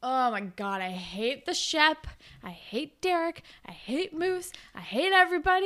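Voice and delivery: real exasperation, pitch climbing with each name; exasperated hatred. Real, not acted. Host fed up with the episode's bad boys, exasperated hatred. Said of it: "this episode makes me so angry".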